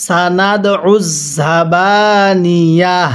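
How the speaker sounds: উজ pressed hard with a strong ain, slow; stressed ain. Shown as a demonstration. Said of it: "কিভাবে পড়ব?". (আইনে চাপ দিয়ে উজ)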